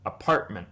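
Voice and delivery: "Apartment." with the T swallowed in a catch; clipped T example; glottal stop. Shown as a demonstration. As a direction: stop the breath where the T goes in "Apartment.". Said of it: "words like apartment".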